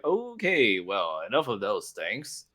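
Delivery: hint of a fidgety flustered noble; flustered penguin manners. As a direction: hurry him along like a fussy penguin. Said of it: "like penguin flap manners".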